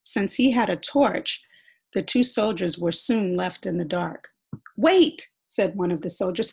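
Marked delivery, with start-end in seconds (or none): 4.8-5.3 loud, higher, panicky call. Acted. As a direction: call him back in fear. Soldier left in dark calls.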